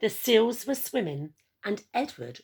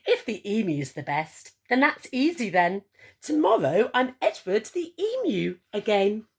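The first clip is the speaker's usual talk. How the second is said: louder, cheerful emu voice; happy to be himself again; laughing Edward; 3 semitones higher, 5 dB louder than usual. Acted. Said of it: "he laughed as he said".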